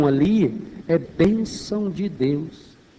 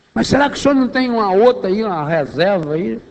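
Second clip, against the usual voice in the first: pleading son; 4 semitones higher, faster than usual. Acted. Esaú pleads with his father.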